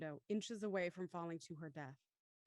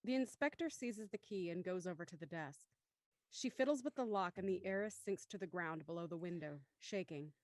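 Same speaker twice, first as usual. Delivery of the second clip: measured scene-setting narration; story narration; 4 semitones lower, 4 dB quieter than usual. A narrator's reading. Narrator moving to the study minutes before, measured narration. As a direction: narrate evenly, falling at phrase ends. Reads stage directions.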